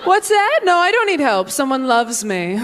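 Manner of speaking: breezy smugness, above it all; smug, high and airy. Retold or imitated. Engaged comic brushing off a store clerk, smugly.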